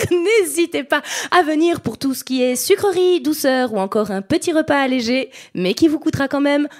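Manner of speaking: lightly hammed onboard announcement voice; train barista announcement. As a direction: announce cheerily over the train speaker. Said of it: "interpréter le personnage". (annonce de barista dans un TGV)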